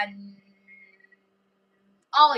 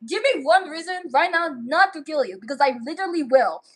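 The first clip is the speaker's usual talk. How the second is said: threatening; 3 semitones higher than usual. Acted. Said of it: "pulls out her freaking gun".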